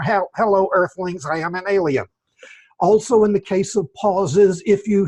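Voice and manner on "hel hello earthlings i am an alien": hollow alien voice, as if speaking into a bottle. Shown as a demonstration. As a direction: greet the Earthlings like a tinny alien. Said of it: "maybe if you spoke like this, speaking into a bottle".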